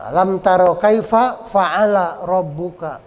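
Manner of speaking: "kaifa fa'ala rabbuka" run on with clear f; joined recitation. Shown as a demonstration. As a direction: link the words, f in fa'ala. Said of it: "sambungin ya".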